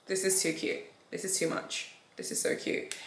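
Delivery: breathless awe. Real, not acted. Overwhelmed by gift.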